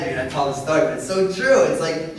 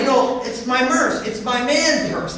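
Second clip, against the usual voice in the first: put-on higher, slow kid voice explaining proudly; child voice; 6 semitones higher, 4 dB louder, slower than usual. Young son proudly showing dad his merce, child voice. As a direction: play the little boy showing off his bag.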